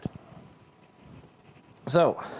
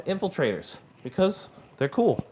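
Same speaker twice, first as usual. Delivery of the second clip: out of breath, pushing through; breathless, gasping between phrases; running out of air; 6 semitones higher than usual. Real, not acted. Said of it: "I'm running out of breath".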